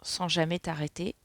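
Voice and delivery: soft, measured reading voice; reading a card message. Acted. Reading a guidance card to viewers, soft read-aloud. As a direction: read it out softly, phrase by phrase.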